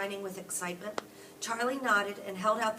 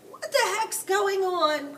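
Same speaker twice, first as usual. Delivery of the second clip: put-on much higher, louder startled old woman; cried out; 12 semitones higher, 12 dB louder, slower than usual. A narrator's reading. Grandma Josephine waking to the laughter, crying out loudly. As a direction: wake up cross and confused. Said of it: "cried Grandma Josephine".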